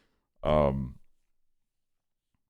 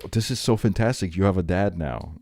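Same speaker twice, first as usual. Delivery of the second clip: mock delight; 3 semitones higher than usual. Imitating the family cheering a reappeared dad, mock-delighted. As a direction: gush in mock congratulation.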